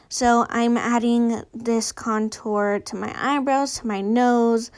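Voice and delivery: slight lisp, wearing a retainer. Real, not acted. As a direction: talk with a retainer in. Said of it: "if you guys notice that I have a lisp".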